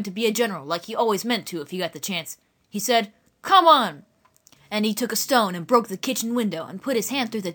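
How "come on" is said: loud command; commanding shout. Acted. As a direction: order them like a general. Boy acts the general.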